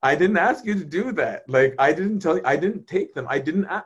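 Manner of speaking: lightly voiced God defending himself against blame; God protesting. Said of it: "He's like".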